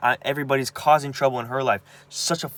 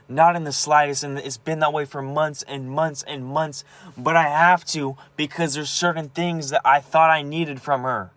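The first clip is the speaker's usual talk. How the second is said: real pain breaking through, rising and louder; upset, close to tears; 5 semitones higher, 4 dB louder than usual. Real, not acted. Venting to camera about her mom, upset and near tears. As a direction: voice pitched up, strained with hurt.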